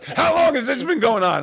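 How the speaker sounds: loud, high-pitched retold confrontation; mock outraged demand. Duped comic confronting the prankster, loud mock outrage.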